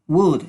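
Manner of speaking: "Would" said short and firm; model pronunciation. Shown as a demonstration. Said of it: "Se pronuncia así".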